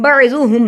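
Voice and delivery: "بعضهم" with a thick, full dad; heavy dad. Shown as a demonstration. Teacher showing the heavy dad, "بعضهم" said thickly. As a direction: make the middle consonant of "بعضهم" heavy. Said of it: "ضاد کو موٹا پڑھا جاتا ہے".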